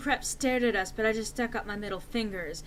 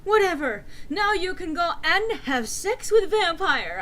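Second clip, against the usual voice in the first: loud, higher angry shout; 8 semitones higher, 7 dB louder than usual. Acted. Enderby shouting back at Draco, loud. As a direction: snap back loud and bitter. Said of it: "I shouted".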